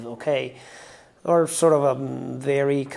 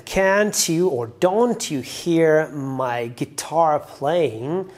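slow read-out; 3 dB louder, much slower than usual. Shown as a demonstration. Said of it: "we Italians would think something like".

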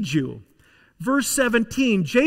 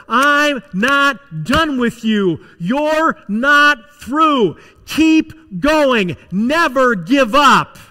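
rising, slow, ever louder declaration; building shout; 5 semitones higher, 7 dB louder, much slower than usual. Acted. God rallies weary Elijah, slow, high and louder. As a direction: hammer each phrase harder. God's encouragement preached at full force.

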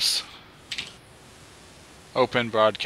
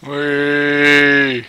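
playful whee; 3 semitones higher, 6 dB louder than usual. Pretend. Gliding down with a parachute.

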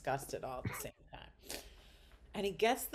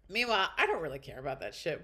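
normal talking voice

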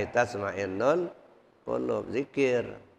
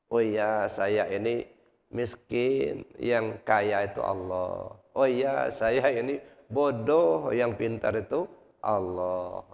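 humble acceptance; 3 semitones lower, slower than usual. Retold or imitated. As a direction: let the pride drain out gently. Humbled man accepts, calms down.

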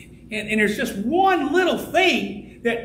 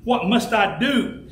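"do" drawn out at the end of a slow question; slow down and lean on "do"; stress on "do"; slower than usual. Shown as a demonstration. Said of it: "emphasizes the word doing".

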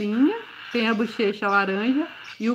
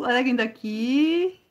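put-on baby talk; 3 semitones higher than usual. Fala carinhosa com o filhote.

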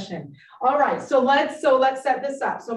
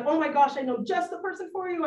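eager helper; 7 semitones higher, faster than usual. Retold or imitated. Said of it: "We want to be like".

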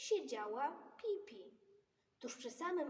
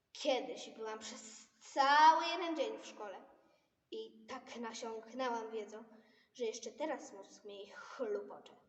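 Pippi voice; 7 dB louder than usual. Acted. Pipi voiced in story.

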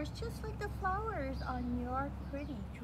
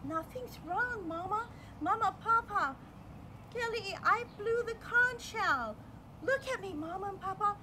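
excited; 7 semitones higher, 3 dB louder than usual. Acted. Proud child shows her parents.

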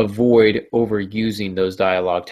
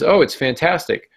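lightly acted sarcasm, pitched up; sarcastic; 5 semitones higher than usual. Man answers how his day went after a run of disasters, sarcastic. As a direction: say it with obvious mock enthusiasm. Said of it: "We all know that's sarcastic".

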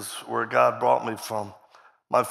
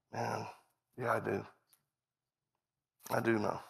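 much softer, lower musing; inner thought; 3 semitones lower, 12 dB quieter than usual. Retold or imitated. Preacher recalling his private reply, quiet and inward. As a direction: say it almost to yourself.

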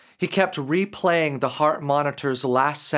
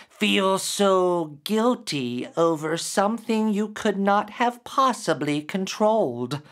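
higher, gentler transformed voice; changing creature voice; 5 semitones higher than usual. Acted. Creature revealing itself to Derek, voice shifting higher. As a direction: let the monster soften into something kinder. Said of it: "the creature's voice started to slowly change".

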